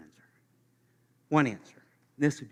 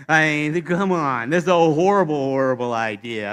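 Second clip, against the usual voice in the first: indignant protest; 10 dB louder than usual. Pretend. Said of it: "third answer could be".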